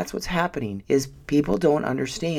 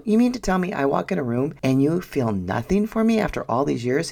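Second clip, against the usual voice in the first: indignant retort; 4 semitones higher than usual. Retold or imitated. Acted indignant challenge to husband.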